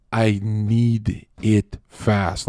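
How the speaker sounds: slow, clipped businessman impression; mock businessman demanding it fast; impatient businessman. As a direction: play a curt busy executive. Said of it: "like some businessman".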